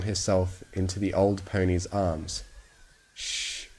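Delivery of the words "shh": whispered soft shush. Acted. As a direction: hush the frightened bunny. Old pony soothing the bunny.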